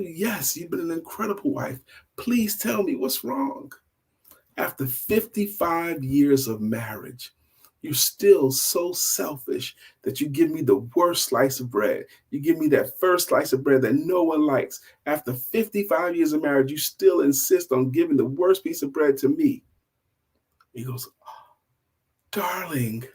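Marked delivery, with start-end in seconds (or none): 0.0-3.7 soft, higher, reassuring plea; pleading husband. Acted. Husband begging his crying wife to explain, tender and pleading. 4.6-19.6 mildly hurt, higher-pitched accusation; building complaint, lightly acted indignation; aggrieved wife. Wife accusing her husband after years of marriage, hurt and reproachful.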